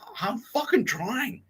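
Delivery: high, slow, then a loud yelled hey; exasperated character shouting for attention; frustrated yell. Retold or imitated. Voicing frustrated character calling out.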